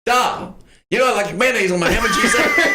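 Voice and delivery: mock complaint. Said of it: "your wife forgot to put mayonnaise".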